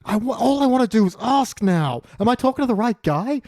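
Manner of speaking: squeaky hesitant asking; high mock voice. Patient asks the doctor, squeaky and high.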